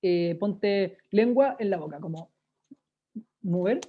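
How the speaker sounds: talking with the tongue pushed into the cheek; warm-up, tongue rolling round the mouth; slow warm-up words around the tongue. Shown as a demonstration. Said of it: "es un calentamiento".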